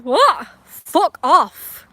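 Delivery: high, loud and sharp; explosive yell; yelled outburst. Real, not acted. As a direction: shout it as a sudden rebuff. Bursts out yelling an insult.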